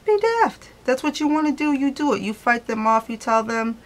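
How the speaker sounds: urging the viewer to ignore the doubters; bright encouragement. Real, not acted. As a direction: lift the voice high to egg them on. Urging viewer to defy them.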